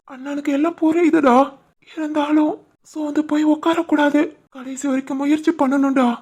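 brother gently soothing his weeping sister. Acted. Brother consoling crying sister.

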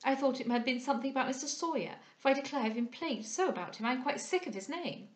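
lightly voiced chatty society lady; prattling young lady, plagued. Young lady complaining about a gentleman, mildly plagued. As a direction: complain with a touch of weariness at being teased.

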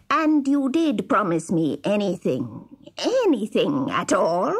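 sly, insistent villain voice; scheming dwarf. Acted. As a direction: press him, drawing out the last words. Dwarf presses king on his promise.

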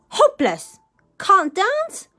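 loud, high scoffing exclamation; scornful dismissal. A narrator's reading. Rude host judging the princess's dancing, scornful. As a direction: scoff loudly in disbelief.

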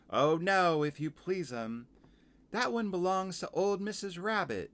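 polite laundress, starting high and loud; Missus Tiggy Winkle. Acted. Washerwoman explaining smelly hankie to visitor, polite character voice. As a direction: open high and emphatic, settle into busy explaining.

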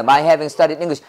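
quick, run-together English chunk; brisk fluency-drill delivery; said quickly. Shown as a demonstration. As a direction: rattle off the phrase as one chunk. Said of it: "이렇게 빨리 나와야 된다".

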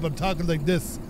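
mimicking a stuffed-up nose. Shown as a demonstration. Complaining about spring pollen, stuffed-up voice. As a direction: talk as if congested by pollen. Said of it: "I'm so stuffed up".

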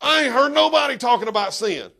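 laughing retelling to the congregation; laughing repeat. Acted. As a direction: replay the outburst laughing. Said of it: "my wife grabbed me and pulled me down".

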